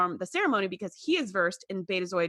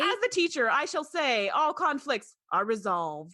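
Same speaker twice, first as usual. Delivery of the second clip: mock captain decree; 4 semitones higher than usual. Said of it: "And I was like".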